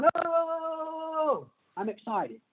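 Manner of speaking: high, eager mock protest; excited cone. Lecturer voicing green-light cones, high and eager. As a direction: insist it like a thrilled child.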